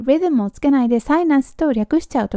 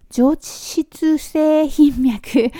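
tongue-tied stumble; 4 semitones higher, much slower than usual. Real, not acted. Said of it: "ちょっと滑舌が悪くて".

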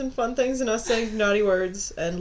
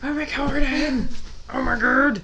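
surprised shout; 2 semitones higher, 5 dB louder than usual. Real, not acted. Surprised recording already started.

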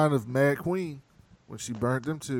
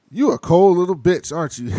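mock Hound insult; 6 semitones higher, 10 dB louder than usual. Hound insults Arya, retold.

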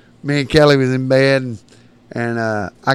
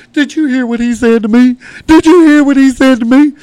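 indignant woman; 12 semitones higher, 6 dB louder than usual. Retold or imitated. Blonde gal complains to giant.

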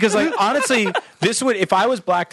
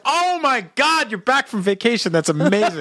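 excited dog; 6 semitones higher than usual. Acted. Dog greeting owner fetching newspaper, ecstatic. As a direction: coo it like a thrilled pet. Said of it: "and like".

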